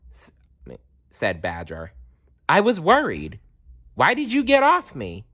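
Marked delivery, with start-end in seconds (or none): 2.5-5.2 squeaky mole voice. A narrator's reading. Mole character voice.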